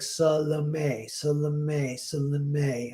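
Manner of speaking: Salome drilled as SUH-luh-MAY, each alike; repetitive practice of Salome. Retold or imitated. Actress practises the name over and over, Salome syllable by syllable. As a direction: chant Salome in three even syllables. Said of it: "say it a hundred times".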